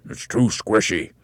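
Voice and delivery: slow, talking through food; mouth full. Acted. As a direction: whine round a mouthful. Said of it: "talking with his mouth full".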